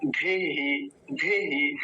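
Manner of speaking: धेहि with a quick final vowel; short इ in धेहि. Shown as a demonstration. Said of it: "जल्दी बोला जाएगा". (धेहि में छोटी इ)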